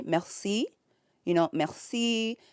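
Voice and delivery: merci with a French R. Shown as a demonstration. Learner showing chat the French R, careful. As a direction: roll the R in merci. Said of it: "which I can kind of say".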